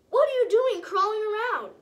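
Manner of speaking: a loud, high hail from the gnome; gnome calling out. Acted. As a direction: call out to the little butterfly. Gnome calls out to Pete.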